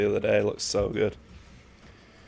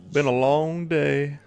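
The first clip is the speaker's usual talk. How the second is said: higher, slow, dragged-out weary sigh; weary drawl; 5 semitones higher, slower than usual. Shown as a demonstration. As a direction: stretch it out like you're exhausted. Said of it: "Sorry, I'm tired today".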